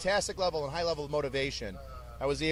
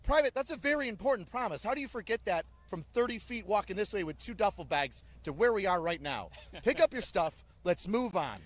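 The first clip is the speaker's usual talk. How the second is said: higher, sarcastic bark; mock the forgotten promise sternly; drill sergeant scolding; 4 semitones higher than usual. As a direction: drill sergeant ribbing a recruit about his promise. Drill sergeant correcting recruit.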